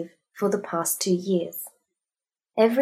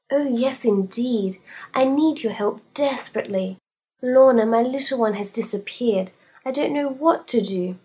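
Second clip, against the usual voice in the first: a lightly raised, anxious lady client; fussy fat lady; 4 semitones higher than usual. Acted. Fat lady to detective, fretful lady voice. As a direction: play her fretting over Lorna.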